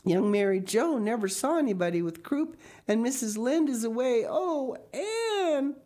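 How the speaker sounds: high, tearful voice with a catch; crying. A narrator's reading. Diana crying to Anne that nobody can help, high and tearful. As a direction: break down in tears.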